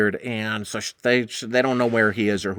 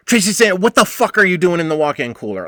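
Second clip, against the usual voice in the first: higher, louder angry outburst; lost my temper; 5 semitones higher, 4 dB louder than usual. Retold or imitated. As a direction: snap at her for sneaking in. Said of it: "I lost my shit".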